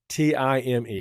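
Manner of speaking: put-on kids spell love, drawn out slowly. Shown as a demonstration. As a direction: spell out each letter slowly. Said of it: "kids spell love".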